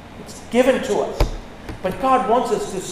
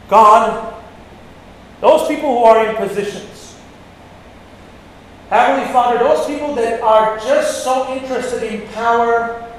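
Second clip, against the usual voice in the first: fervent prayer. Acted. Preacher praying for church leaders to repent, fervent. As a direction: plead with Heavenly Father for the church.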